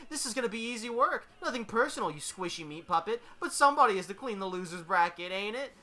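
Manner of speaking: brash, sing-song trash talk; cocky Deadpool, gloating. Acted. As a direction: taunt a beaten foe with relish.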